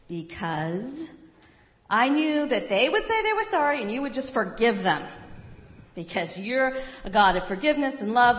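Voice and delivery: loud, indignant protest at God; angry complaint. Acted. Jonah complains angrily to God.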